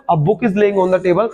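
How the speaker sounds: slow reading, "A" said as "uh"; weak article sound. Shown as a demonstration. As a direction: read "A book" as "uh book". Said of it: "इसको आ पढ़ते हैं". ("A" को "अ" पढ़ें, धीरे-धीरे)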